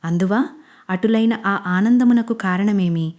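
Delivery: lightly voiced old-style stage king, slowing at the end; mock-theatrical questions in a stage hero's manner; dramatic stage dialogue. Manish teasing crying Anjali in mild mock stage voice. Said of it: "పెద్ద పెద్ద నాటకీయ డైలాగులు చెప్తాడు".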